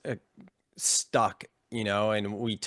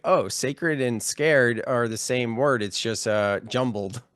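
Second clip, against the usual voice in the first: raised, louder voice of discovery; sudden realization; 4 semitones higher, 7 dB louder than usual. Retold or imitated. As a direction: replay the moment it clicked, higher and louder.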